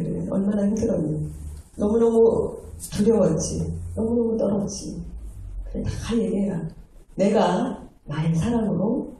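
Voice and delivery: lightly acted soothing fatherly reassurance; tender God. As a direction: comfort someone who has been afraid, unhurried. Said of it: "하나님께서".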